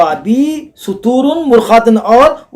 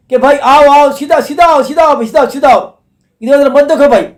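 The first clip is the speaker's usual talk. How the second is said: higher-pitched urging call; calling out to a passer-by; 5 semitones higher than usual. Retold or imitated. Man at the road's end calls to a traveller, calling out. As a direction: urge them onward, mildly raised voice. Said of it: "शख्स और आवाज़ दे रहा".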